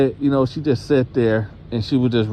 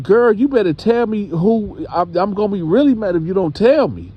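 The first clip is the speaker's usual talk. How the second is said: higher, exasperated mock scolding; warning; 8 semitones higher than usual. Grandma warns her girl to name the man, scolding. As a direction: act out a mother's impatient threat.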